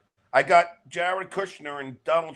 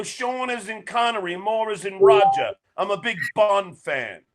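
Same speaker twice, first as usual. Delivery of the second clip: bad English accent; 3 semitones higher, 4 dB louder than usual. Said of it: "do you hear that English accent".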